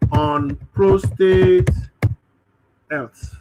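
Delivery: slow, deliberate word by word; slow dictation. Shown as a demonstration. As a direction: spell out prostate health slowly. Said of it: "dictating the prompt".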